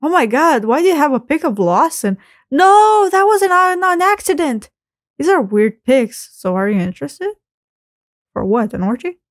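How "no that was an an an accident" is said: flustered. Acted. Flustered denial of Lawson pic.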